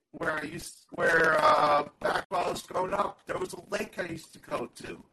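glitchy robotic connection. Real, not acted. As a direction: voice breaking up like a bad internet line. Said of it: "Now you sound a little robotic".

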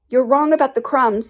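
high-pitched creature voice; Mock Turtle, earnest. A narrator's reading.

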